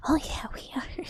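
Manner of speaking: a touch of mock crying; mock dismay. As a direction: wail it in fake anguish. Repeat higher, louder, half-crying.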